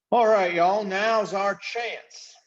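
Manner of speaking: high, slow, drawling chief's voice; rally the band like a swaggering leader; gruff invisible chief. Acted. Invisible chief calling his crew to attack, high and slow.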